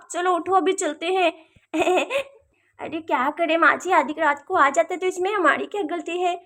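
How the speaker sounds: lightly voiced characters murmuring in the dark; hushed night-time character voices.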